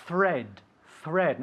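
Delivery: "thread" begun with tongue out for TH. Shown as a demonstration. Teacher models the word for a learner, tongue-out TH on "thread". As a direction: say "thread" with a clear dental TH. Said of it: "I'm sticking out my tongue".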